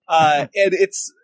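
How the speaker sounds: ordinary talk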